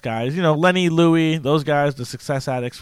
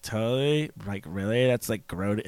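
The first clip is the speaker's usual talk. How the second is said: Grody J voice; 4 semitones lower, 7 dB quieter than usual. Retold or imitated. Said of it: "Grody J".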